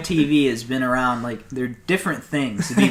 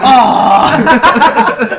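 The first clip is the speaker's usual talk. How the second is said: loud, high caricatured Asian "aw"; hammed-up Asian-accented exclamation; mock Asian accent; 11 semitones higher, 11 dB louder than usual. Comic imitating a grateful family, mock Asian accent. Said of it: "I love the Asian aw".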